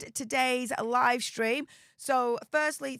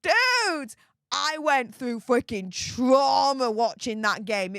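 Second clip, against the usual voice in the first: heated rant; 2 semitones higher, 4 dB louder, slower than usual. Real, not acted. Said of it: "I'm getting really, really heated now".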